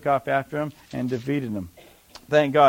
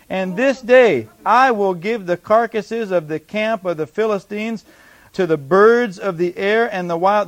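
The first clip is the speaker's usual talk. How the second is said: bold declaration to an enemy; confident declaration. Acted. Preacher reading David's answer to the Philistine, confident. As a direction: declare victory with steady confidence. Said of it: "Can you see the confidence?".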